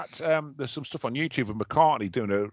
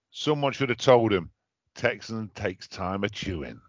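put-on West Country accent; 4 semitones lower than usual. Mate recites an old chocolate advert in a mild West Country accent. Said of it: "I did that in a West Country accent".

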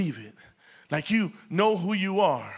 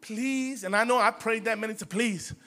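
begging prayer. Retold or imitated. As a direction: plead weakly with God. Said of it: "we can't start".

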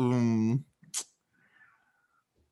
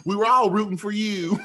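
high mock yell through laughter; mock outraged rant; 9 semitones higher than usual. Friend echoing the rant between laughs, mock outrage. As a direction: parody a wounded scolding, pitched high.

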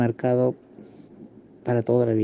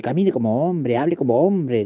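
imitating a stern, insistent order; lightly voiced preceptor ordering the boy; forceful command. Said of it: "y fuerte".

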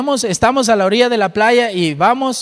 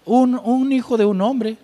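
imagined skeptic; 5 semitones higher than usual. Retold or imitated. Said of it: "cualquiera hubiera podido decir".

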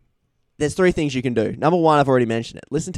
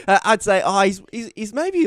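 laughing; 9 semitones higher than usual. Real, not acted. Laughing while introducing.

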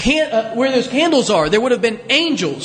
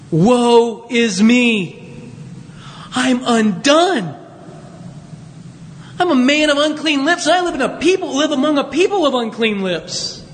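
dramatized terror. Acted. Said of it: "He is terrified by the sight of God".

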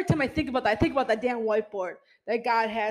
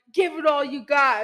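hyped motivational voice; 3 semitones higher, 4 dB louder than usual. Retold or imitated. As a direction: fire up the crowd, mock-cheering. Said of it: "I'm very motivational".

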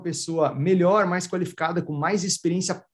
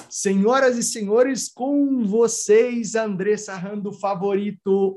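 grand entrance announcement; 2 semitones higher, slower than usual. Acted. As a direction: announce the guest like a ringmaster. Host introduces the guest.

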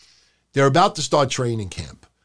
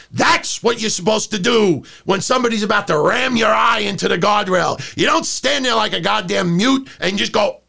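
mock scolding; 5 semitones higher than usual. Scolding the wrestler.

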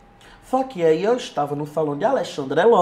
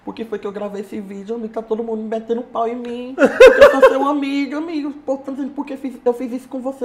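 retold tearful lament; 2 semitones higher than usual. A friend distraught over his own video, retold tearful lament. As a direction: imitate a friend's upset, half-played lament. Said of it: "Chorando, chorando, chorando. Ele veio me dizer".

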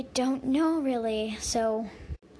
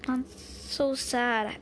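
tearful; much slower than usual. Acted. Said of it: "tried to keep a tear away".

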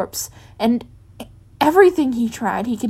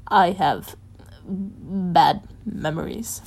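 strained whisper; 2 semitones lower, much slower than usual. Acted. Painful confession, whispered slow.

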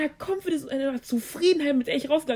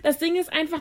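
laughing, louder and slow; 5 semitones higher, 7 dB louder, slower than usual. Real, not acted. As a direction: get the words out through real laughter. Laughing over her own story.

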